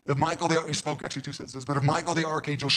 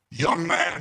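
a stern call, a notch louder; louder, firmer young man; 3 semitones higher, 5 dB louder than usual. Retold or imitated. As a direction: say it like a rebuke from above, firmer. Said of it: "That's volume six".

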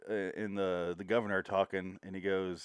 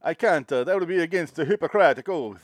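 lightly acted movie doctor, raised pitch; mock protest, a bit louder and higher; John Hurt; 6 semitones higher, 7 dB louder than usual. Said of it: "John Hurt goes".

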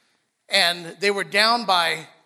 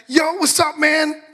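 much higher and louder, big friendly hail; hyped greeting; 8 semitones higher, 9 dB louder, slower than usual. Retold or imitated. Greeting somebody who won't high five back, loud excited hail. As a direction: call out to a buddy with a high five.

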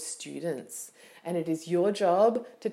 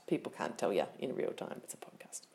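the speaker's own voice; 14 semitones lower, 11 dB quieter, faster than usual. Retold or imitated. Answering herself.

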